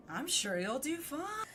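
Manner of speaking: dry sarcastic read of "I'm sure you'll do fine". Shown as a demonstration. Streamer contrasting the line with a sarcastic take: dry sarcasm. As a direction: say it like you don't mean it. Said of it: "Unless I said it more sarcastically".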